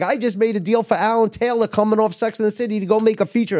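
high mock agent voice, boasting; agent bragging. Agent Leslie boasting about a deal she just made, high mock voice. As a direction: pitch it up and brag like the agent. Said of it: "She's like".

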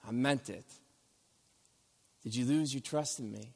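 gentle reassurance. Retold or imitated. Jesus gently asking scared disciples about their trust, softly.

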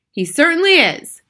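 high, loud, emphatic agreement; boy's shout. A narrator's reading. Mouse boy agreeing from inside the handbag, high shout. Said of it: "Bruno shouted from inside".

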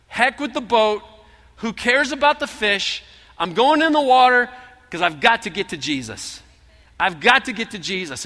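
high, loud, urgent; eager Peter. Acted. Peter leaping from the boat to reach Jesus, loud and eager. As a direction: throw the boat aside and go.

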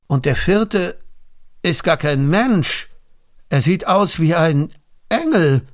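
high, alarmed astonishment rising to a cry on Engel; a frightened king who cannot believe his eyes; startled king. Acted. King sees a fourth figure in the fire, high and alarmed. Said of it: "erschrak er".

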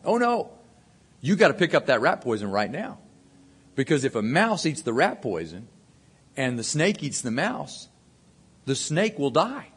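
hammed-up panic about saving the snake; dramatic uncle. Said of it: "My uncle's very dramatic".

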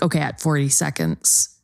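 low, then breathy hollow laughter; mock cowpoke laugh. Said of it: "this is an example of a joke".

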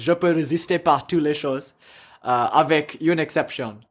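put-on quoting Wilde in clumsy English-accented French; English speaker's French. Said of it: "scold me for my, uh, French accent".

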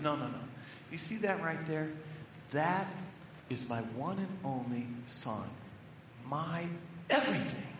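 soft, low, hushed pride in his son; almost a whisper, full of awe for his child; hushed tender father. Retold or imitated. Friend tenderly about his son.

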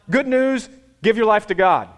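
mock preachy bark, high and loud; hammed-up church nag; scolding preacher. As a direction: parody a nagging preacher.

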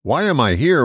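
"am" leaned on, tune rising; weight on "am", not "here"; stress on am. Shown as a demonstration. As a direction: global question, stress on "am". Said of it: "accenting the words here and now".

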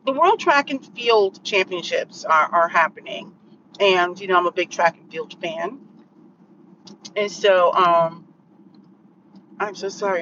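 talking while chewing gum. Real, not acted. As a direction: speak around a wad of gum. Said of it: "I'm chewing gum because my energy was low".

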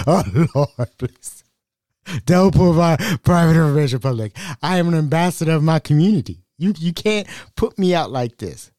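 hammed-up high sobbing plea; mock crying. Begging the scammer not to leak his information, mock sobbing. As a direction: beg and whimper like a fake crier. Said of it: "started breaking down crying".

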